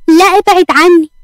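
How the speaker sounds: high, alarmed protest; frightened. A narrator's reading. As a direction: push someone away in fear, pitch jumping up. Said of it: "فرح بخوف وهي مغمضة عينيها". (بخوف وفزع)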